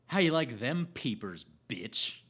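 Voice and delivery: a lightly voiced tough heroine; heroine's one-liner. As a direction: deliver the cheesy punchline with relish. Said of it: "She says this, ready?".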